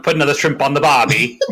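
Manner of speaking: hammed-up Australian accent, quick and laughing; playful fake Australian accent, laughing through it. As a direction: toss off a jokey mock Australian line. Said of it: "It was secretly Australian".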